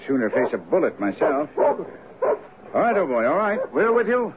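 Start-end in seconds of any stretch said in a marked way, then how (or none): 1.6-4.3 urging the dog on. Acted.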